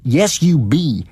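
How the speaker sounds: stubborn insistence. A narrator's reading. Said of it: "says I".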